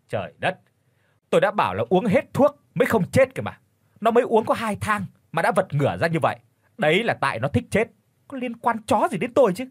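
scolding retort. A narrator's reading. Shaman rebuffs the widow's blame, scolding and high-pitched. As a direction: shout down the accusation, moderately forceful. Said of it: "Lão nạt".

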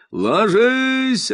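high, loud megaphone order; police megaphone ordering all down; megaphone yell. A narrator's reading. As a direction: yell it through a loudhailer. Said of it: "орёт мегафон".

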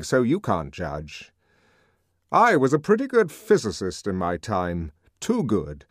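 measured, confiding official; an old scientist remembering; lightly voiced world controller; controller recounting his past. A narrator's reading.

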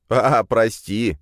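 slow, sheepish apology; embarrassed. Acted. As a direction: caught drinking the milk. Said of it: "смутился Вешкин".

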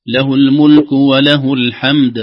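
الحمد ending with a bouncing qalqala on the د, loud and slow; bounced dal. Shown as a demonstration. Teacher modelling the qalqala on the final د. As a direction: give the د of الحمد a clear bounce. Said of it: "الدال مقلقلة تحتاج عناية".

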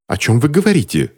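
high, indignant gentleman's protest; pompous exclamation. A narrator's reading. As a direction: exclaim with self-important disbelief. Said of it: "воскликнул важный джентльмен в котелке".

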